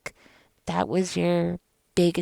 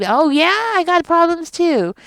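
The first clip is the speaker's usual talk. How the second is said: higher, louder sarcastic throw-back; hammed-up snippy retort, much higher; mock sarcastic comeback; 10 semitones higher, 7 dB louder than usual. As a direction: toss it back at them with sass. Mock reply slamming back at narcissist.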